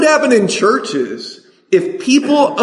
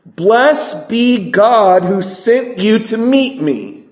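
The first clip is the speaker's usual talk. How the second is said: slow emphatic reread; 3 semitones higher, much slower than usual. Shown as a demonstration. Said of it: "Look at verse thirty-two".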